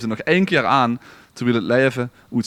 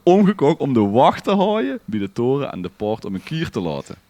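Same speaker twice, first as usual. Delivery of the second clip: fresh retake; 5 semitones higher, 4 dB louder than usual. Shown as a demonstration.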